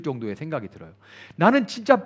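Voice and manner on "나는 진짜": high, anguished mock wail of self-hatred; imitating a self-flagellating penitent, pitch climbing; self-loathing wail. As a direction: ham up a sinner crying out he deserves to die. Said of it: "막 이러-, 이러잖아요".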